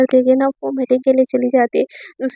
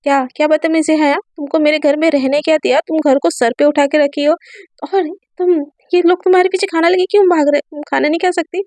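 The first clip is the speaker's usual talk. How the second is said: angry scolding. Acted. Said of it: "एकदम गुस्से में बोलती है".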